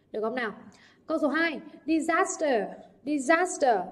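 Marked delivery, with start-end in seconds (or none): 1.9-3.8 "disaster" stressed on SAS, falling after; second-syllable stress. Shown as a demonstration. Teacher modelling word stress for students, "disaster" stressed on SAS. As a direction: lean on the middle syllable of "disaster". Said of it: "trọng âm rơi vào âm tiết thứ hai".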